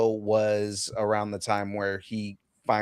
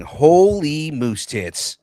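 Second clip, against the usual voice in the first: savoring exclamation; 4 semitones higher, 6 dB louder, much slower than usual. Pretend. Repeats catchphrase again, slower.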